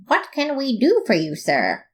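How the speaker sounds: mock hard-boiled detective question; grizzled detective. Detective greeting a robot client, lightly grizzled. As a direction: ask it like a weary old gumshoe. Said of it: "I asked grizzledly".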